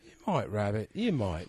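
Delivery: lightly voiced Irish accent; a hint of a bad Irish brogue. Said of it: "It's an Irish accent".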